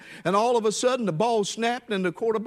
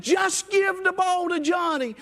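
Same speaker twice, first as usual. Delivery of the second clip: coach yelling; 9 semitones higher than usual. Retold or imitated. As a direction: bellow the order from the sideline. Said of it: "the coach yells over at the quarterback".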